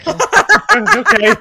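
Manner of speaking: high, laughing okay. Acted. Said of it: "And he says".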